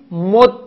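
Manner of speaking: مد slow, with doubled dal and final a; assimilated, fatha ending. Shown as a demonstration. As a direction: hold the dal of مد, then release -da. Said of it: "در هر سه صورت ادغام". (مد با دال مشدد و فتحه)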